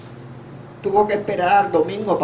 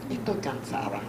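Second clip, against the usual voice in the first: tired mother; 5 semitones lower, 11 dB quieter than usual. Retold or imitated. Dying mother asks for rest.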